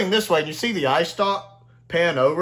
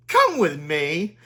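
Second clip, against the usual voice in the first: stern Dalek order; much slower than usual. Retold or imitated. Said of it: "the Black Dome Dalek immediately like".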